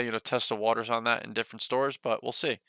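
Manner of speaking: breathless after rambling; running out of breath. Real, not acted. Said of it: "Gotta catch my breath".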